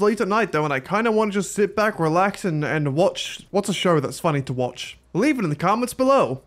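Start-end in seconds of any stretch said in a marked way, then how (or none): 5.1-6.4 put-on American YouTuber accent, slightly higher; lightly mock an American YouTuber's accent. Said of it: "an American accent when I do that".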